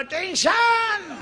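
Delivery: slow, stretched out high; drawn-out mock tension. Boy to his friends, a slow high drawn-out word.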